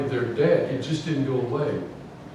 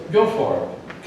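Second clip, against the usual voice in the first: sarcastic; 4 semitones higher, slower than usual. Retold or imitated. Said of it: "Kind of sarcastic".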